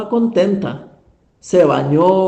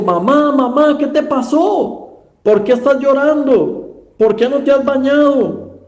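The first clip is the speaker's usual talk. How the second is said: higher-pitched, worried questioning of a mother; acted concern, pitched up; alarmed son; 5 semitones higher than usual. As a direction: plead with mother to explain, voice raised in pitch. Son finds his mother crying again.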